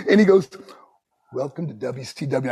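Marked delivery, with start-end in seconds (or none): 1.3-2.5 low, soft retold boss voice; understated welcome. Boss accepts the new signing, quiet low imitation.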